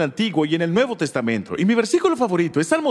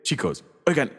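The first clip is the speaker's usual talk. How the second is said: mock exasperated God. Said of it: "es algo divertido".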